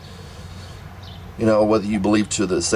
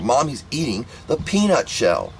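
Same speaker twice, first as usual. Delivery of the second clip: exasperated insistence; 4 semitones higher, slower than usual. Retold or imitated. Child repeatedly warning mom.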